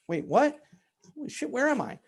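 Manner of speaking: jolted awake, voice jumping high and loud; panicked surprise. Retold or imitated. Waking late for the big meeting, startled and panicked. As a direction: panic as it dawns on you.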